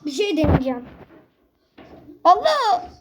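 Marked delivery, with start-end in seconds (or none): 2.2-2.9 higher, louder cry with a laugh; laughing yelp. Real, not acted. Sudden fall, laughing. (gülerek şaşkın çığlık)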